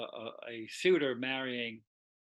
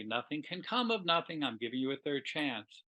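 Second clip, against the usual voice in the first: coaxing. Retold or imitated. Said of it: "in a coaxing way".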